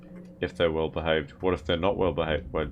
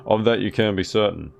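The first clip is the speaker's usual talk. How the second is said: put-on old lady voice; 4 dB louder than usual. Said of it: "I can't do the old lady voice".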